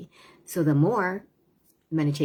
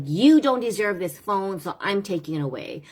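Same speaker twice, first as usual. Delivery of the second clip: harsh scolding; 4 semitones higher than usual. Retold or imitated. Parent to child taking the phone, stern scolding. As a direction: snap it like a strict parent confiscating. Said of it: "it's the way that you say it".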